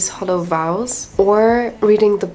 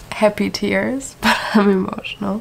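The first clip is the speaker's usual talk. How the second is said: laughing through tears. Real, not acted. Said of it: "I'm so emotional right now".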